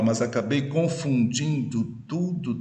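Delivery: syllable counting. Shown as a demonstration. Teacher pointing out the nine-syllable verse, measured scansion of "mas acabei confundindo tudo". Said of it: "tem nove sílabas".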